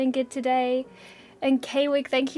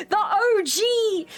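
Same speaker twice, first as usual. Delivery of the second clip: laughing squeal through the words; laughing cheer; 8 semitones higher, slower than usual. Real, not acted. Streamer cheering the original hero to chat, laughing.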